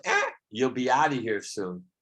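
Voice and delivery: lightly voiced comedian impression; a hint of mock comic heckling; Larry David. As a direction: imitate a comedian, opening on a squawked "Eh". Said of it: "Larry David goes".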